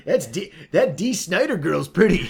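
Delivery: put-on slow drawling old-timer voice; lecherous old man. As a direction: leer like an old guy at the TV. Mock old viewer commenting.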